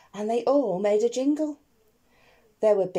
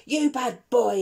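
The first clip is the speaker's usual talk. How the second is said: hissed; 2 semitones higher, 4 dB louder than usual. Acted. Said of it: "he hissed".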